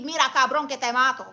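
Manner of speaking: a quiet grandmother threat, like a possession; menacing abuela. Acted. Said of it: "That was one of my abuelas".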